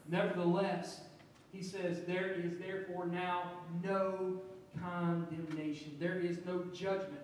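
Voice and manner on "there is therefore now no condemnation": slowed, with no stressed; emphatic no. Shown as a demonstration. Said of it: "this in the Greek is very emphatic".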